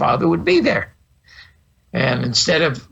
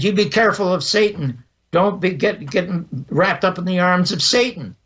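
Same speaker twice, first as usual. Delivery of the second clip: retold scolding, pitched higher; angry minister; 4 semitones higher than usual. Angered minister warns a wise-mouthed kid, retold as a higher-pitched scolding. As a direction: mildly imitate an angered preacher's warning. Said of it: "And he gets angry".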